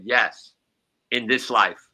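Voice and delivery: deadpan pointed retort; stress on this life. Retold or imitated. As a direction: land "in this life" like a punchline. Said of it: "I said".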